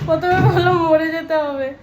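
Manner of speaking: lightly mimicking the child's line; imitating the child. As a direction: echo the kid's words in a light mock child voice. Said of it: "বলছে কি". (বাচ্চার কথা হালকা নকল করে বলা)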